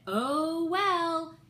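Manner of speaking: high, loud, breezy brush-off; flippant shrug. Retold or imitated. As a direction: toss it off like it doesn't matter. Flippant reply while running upstairs.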